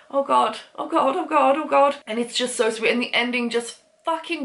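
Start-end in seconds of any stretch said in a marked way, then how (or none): 0.1-2.0 higher, hurried, mildly frantic repeating; panicked caveman. Retold or imitated. Caveman to the woman who punched him, mildly panicked. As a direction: play him lightly panicking at his own blood. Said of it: "And he's like".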